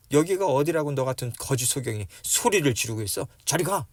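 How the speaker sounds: mildly acted scolding; browbeating. Crowd driving the beggar away, mild browbeating. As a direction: scold him and send him off. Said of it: "윽박질렀던 거예요".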